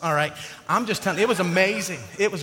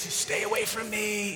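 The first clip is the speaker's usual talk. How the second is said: mock warning; 8 dB quieter than usual. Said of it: "she's like".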